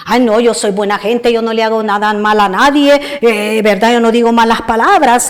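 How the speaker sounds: mock pious person. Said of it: "Él muy piadoso como mucha gente".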